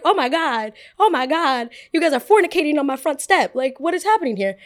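loud, high scandalised exclaiming; half-shriek at the couple on the step; outraged disbelief. Retold or imitated. Scolding the couple making out, loud and scandalised. Catching them on her front step.

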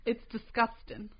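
put-on slow, drawn-out New England accent; hammed-up New England disapproval; mock New England accent.

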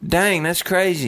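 slow country twang; country accent. Shown as a demonstration. Co-host tries out the accent, slow country twang.

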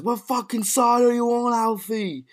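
high-pitched acted demand; high, strained-up character challenge; Michael's line. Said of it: "when Michael chimes in and says".

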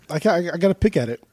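talking while chewing; mouth full. Real, not acted. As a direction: say it through a bite. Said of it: "As you're chewing too".

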